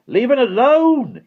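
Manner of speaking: long, high, loud angry yell; growled shout, slow and forceful. A narrator's reading. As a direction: warn them off furiously, stretching it out. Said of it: "he growled".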